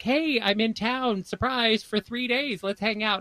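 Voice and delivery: high, slow friendly invite; chirpy surprise invite voice. Retold or imitated. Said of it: "And he's like".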